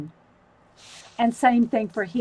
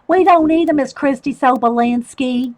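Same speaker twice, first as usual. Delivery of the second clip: put-on Southern accent; 4 dB louder than usual. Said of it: "That's the only way I can say her name is with a Southern accent".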